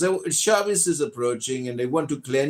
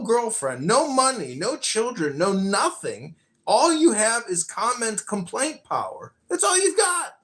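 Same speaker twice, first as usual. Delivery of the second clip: scornful retort; 5 semitones higher than usual. Retold or imitated. Imagined retort to friend's comment.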